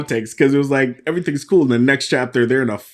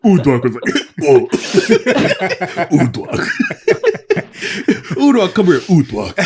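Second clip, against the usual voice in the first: calling a name; 6 semitones higher, 5 dB louder than usual. Retold or imitated. Voicing calling Udwak over.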